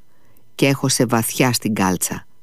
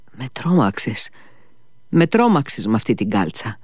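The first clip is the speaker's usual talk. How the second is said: foolish smile. Acted. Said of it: "με ένα ηλίθιο χαμόγελο".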